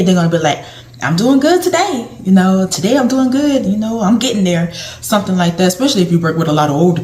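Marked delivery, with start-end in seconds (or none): 1.0-4.7 bright answer pitched well up; cheerful patient. Retold or imitated. Patient telling the caregiver how they feel, upbeat and high. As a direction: sound like a happy patient glad to be asked.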